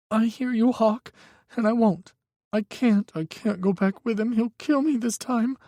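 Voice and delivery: put-on high, tense young voice; a frightened young man pleading on the phone; young man, scared. A narrator's reading. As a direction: Micah telling Hawk his ex is dangerous, high and scared. Micah's voice, terrified.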